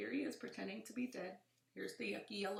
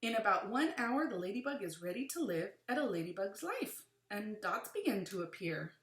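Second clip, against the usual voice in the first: put-on reading to children; 5 dB louder than usual. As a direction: lively, clear read-aloud. Reads book aloud to children.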